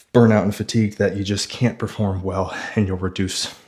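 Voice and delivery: talking while winded; breathless after a hard set; out of breath. Real, not acted. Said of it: "I'm still out of breath".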